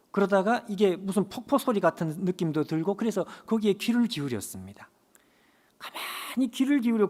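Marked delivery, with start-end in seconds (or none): 5.8-7.1 hushed whisper. Acted. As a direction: whisper it, leaning in to listen. Quiet listening in story. (속삭이듯 조용히)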